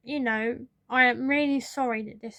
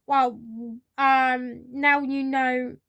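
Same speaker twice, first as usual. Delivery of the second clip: louder, slow, pointed retort; frustrated; 4 dB louder, slower than usual. Retold or imitated. Worker snapping back at the boss about the name, louder and slow. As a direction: bite back each word with frustration. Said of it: "I was so frustrated at this point".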